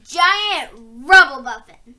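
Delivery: big slow giant voice; slow, loud giant answer; slow booming giant. A narrator's reading. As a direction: announce the name like a huge giant.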